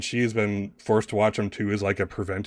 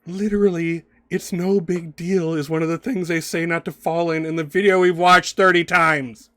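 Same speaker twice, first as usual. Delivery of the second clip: high, exasperated dramatic plea, building louder; pleading; 8 semitones higher, 6 dB louder than usual. Acted. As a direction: plead with your brother, pitched high and pushing harder toward the end. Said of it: "she kinda looks at you pleading".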